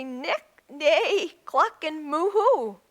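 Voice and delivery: playful imitated farmyard calls; animal noises. Reader voicing the animals finding their own voice, playful animal noises. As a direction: lightly act out each animal's call.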